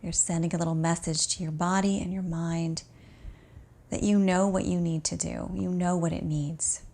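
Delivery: calm, unhurried meditation voice with long pauses; guided relaxation. Acted. Teacher guiding an exhausted student to notice the breath, calm guided relaxation. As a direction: ease the listener gently into rest.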